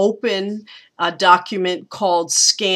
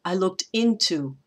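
"I looked" leading into a stressed IN; anapest; 3 dB quieter than usual. Shown as a demonstration. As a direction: lean on the "in" of "into", let "to" trail. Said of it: "and then another anapest".

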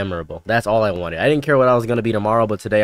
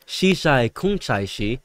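slow, nonsense Mandarin imitation; flowy mock Mandarin; much slower than usual. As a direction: draw out made-up Mandarin sounds, flowing. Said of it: "One's flowy and one's punchy".

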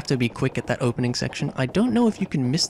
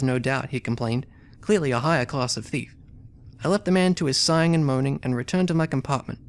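reading the game text aloud as a story; story narration. A narrator's reading. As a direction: narrate it like an adventure novel. Reads story and character dialogue.

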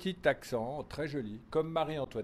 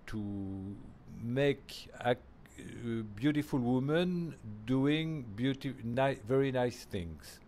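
slow, deliberate quote with every phrase leaned on; weighty quote; much slower than usual. Retold or imitated. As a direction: quote the master slowly, as a maxim. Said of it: "He said, he said".

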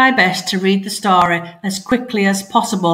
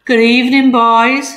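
a louder, higher feline purr of a greeting; purring cat; 4 semitones higher, 5 dB louder than usual. Acted. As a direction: purr it smugly like the gang's boss cat. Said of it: "she purred".

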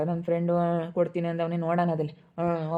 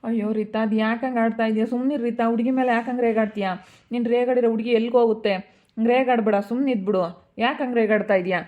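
higher-pitched, urgent protest; agitated remonstrating; 4 semitones higher, 4 dB louder than usual. Acted. Relative telling mother to stop scolding the girl, agitated remonstrating. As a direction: step in and rebuke, exasperated.

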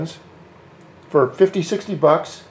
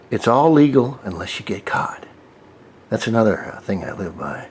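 whispered aside; 6 semitones lower, 4 dB quieter than usual. Acted. Conspiratorial aside to viewers.

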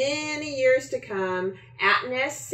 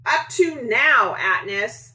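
shout; 6 semitones higher, 4 dB louder than usual. A narrator's reading. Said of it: "He shouts to his sister".

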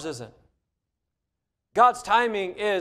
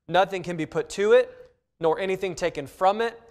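scripture reading; 2 semitones lower than usual. Acted. Reads scripture slowly.

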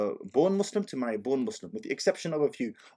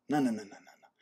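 laughing no; 4 dB quieter, faster than usual. Real, not acted. Laughing refusal.

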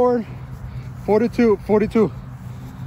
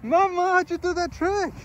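high, amazed oh no; amazed at the trick; surprised; 11 semitones higher, much slower than usual. Real, not acted. Mother scores a trick.

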